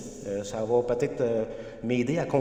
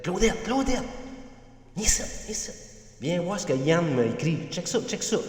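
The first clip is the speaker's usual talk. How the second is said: yelling across the room; 6 semitones higher than usual. Retold or imitated. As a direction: shout for her to come see. Calling wife over to see message.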